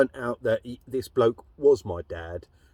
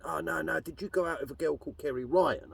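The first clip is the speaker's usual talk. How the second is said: higher, softer hesitant asking; lightly voiced nervy stepbrother; nervous stepbrother; 7 semitones higher, 4 dB quieter than usual. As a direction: tread carefully, unsure. Stepbrother's retold question.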